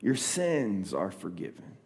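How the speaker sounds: soft, tender words to a son; quiet loving forgiveness. Acted. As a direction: speak it gently, with love. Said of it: "in a loving tone".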